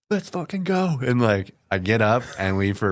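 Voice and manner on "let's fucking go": high, pumped retold battle cry; fired-up cheer. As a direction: relive the rush of being alive. Fired up after surviving hit.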